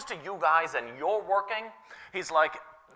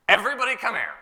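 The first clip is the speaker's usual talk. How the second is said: put-on parent calling kids; 5 semitones higher, 3 dB louder, faster than usual.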